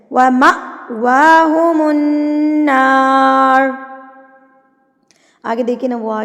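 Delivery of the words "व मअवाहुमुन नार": व मअवाहुमुन नार, abrupt catch after "ma", then stretched; slow recitation jolting at the hamza of व मअवाहुमुन नार; jerked hamza. Shown as a demonstration. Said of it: "लफ्ज़ को झटका दे के".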